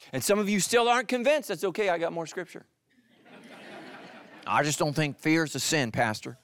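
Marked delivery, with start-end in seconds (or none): 4.4-6.4 light Southern twang on a doubter's protest; Southern accent. Acted. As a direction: slip into a mild Southern accent. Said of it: "There's that Southern accent again".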